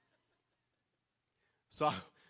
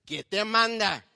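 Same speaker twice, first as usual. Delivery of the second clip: imitating angry mom; 8 semitones higher, 12 dB louder, slower than usual. Mother scolding voiced in story.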